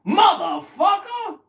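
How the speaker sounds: very high, loud, slow cursing yell; slow furious shout; angry shouted curse. Retold or imitated. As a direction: spit the curse as you walk off. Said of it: "he said".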